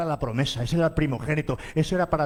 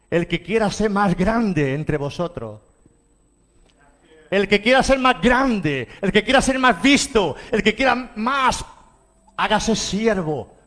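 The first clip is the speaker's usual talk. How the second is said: slow, rising intensity with each repeat; building preaching challenge; 3 semitones higher, 4 dB louder, slower than usual. Real, not acted. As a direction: drive each phrase higher, taking your time.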